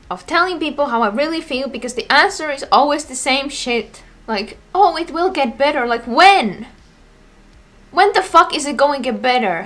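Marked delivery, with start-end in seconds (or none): 4.7-5.9 higher, lightly mimicked comforting line; mock reassurance. Imitating people's usual answer, mock reassurance. 6.0-9.6 pissed-off, forceful demand; real exasperation. Real, not acted. Tired of hearing empty reassurance, angry and exasperated. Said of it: "I'm so fucking pissed".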